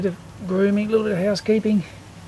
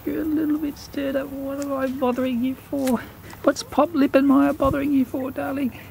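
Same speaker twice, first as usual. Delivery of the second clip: cooing to cat; 5 semitones higher than usual. Real, not acted.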